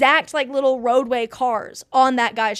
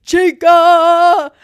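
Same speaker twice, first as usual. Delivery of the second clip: high, loud squeal of the name; a fan squealing the name at the screen; excited squeal; 7 semitones higher, 11 dB louder than usual. Retold or imitated. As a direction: shriek it like a thrilled fan. Reading excited notes aloud.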